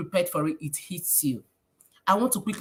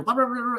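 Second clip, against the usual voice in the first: higher, rattled "pa-pa-pa" syllables; string of quick nonsense syllables; imitated piano-key chatter; 4 semitones higher, faster than usual. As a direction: mimic nonstop talk like pressed piano keys. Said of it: "we are pressing this piano".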